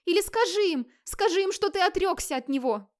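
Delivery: begging her husband to disown the son; high tearful begging; sobbing plea. Acted. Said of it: "сквозь рыдания умоляла Хлода".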